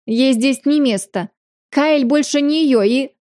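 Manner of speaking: slow and shrill, losing control; hysterical shrill. Acted. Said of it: "истеричной бабе".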